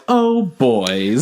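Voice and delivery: a lightly voiced woman rolling her eyes; a hint of a fed-up big sister; exasperated sigh at the boys. The woman sighs at the two bickering men, lightly voiced exasperation. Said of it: "the other chick is just like".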